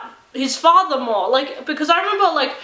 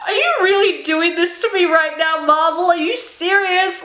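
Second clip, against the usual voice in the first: laughing through a mock complaint to Marvel; half-laughing, pretend accusation; playful, giggly disbelief at the studio; laughing protest; 4 semitones higher than usual.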